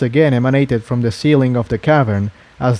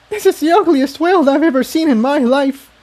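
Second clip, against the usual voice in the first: giggling in spite of herself. A narrator's reading. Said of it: "giggling in spite of herself".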